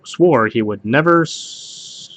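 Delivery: ordinary delivery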